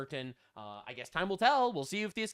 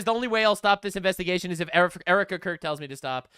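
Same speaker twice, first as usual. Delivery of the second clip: imitating Candace; 6 dB louder, faster than usual. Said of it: "Candace says".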